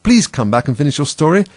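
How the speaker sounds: high, loud appeal; calling after someone. A narrator's reading. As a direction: call out pleadingly to someone leaving. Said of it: "Alice called after it".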